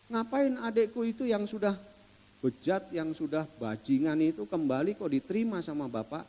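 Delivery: resentful protest against the father's welcome; angry older brother. Retold or imitated. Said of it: "Marah dia sama adiknya itu".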